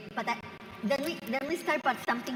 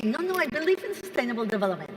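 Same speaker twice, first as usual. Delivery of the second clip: mock concession. Panelist imitating environmentalists to the moderator, mock-conceding. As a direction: imitate a believer brushing off the other points.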